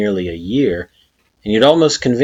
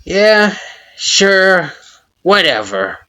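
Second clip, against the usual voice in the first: mumbling; 11 semitones higher, 4 dB louder, much slower than usual. A narrator's reading. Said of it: "he mumbles".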